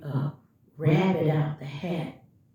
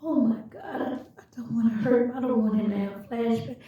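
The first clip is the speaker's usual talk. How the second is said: panicked rush; 4 semitones higher, much faster than usual. Retold or imitated. Panicking before answering.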